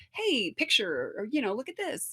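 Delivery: loving inner voice. Retold or imitated. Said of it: "It's very, it's very loving".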